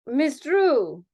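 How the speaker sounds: put-on Miss Drew with a Spanish accent; Spanish-accented dancer voice on Miss Drew. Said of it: "Especially because you said señorita".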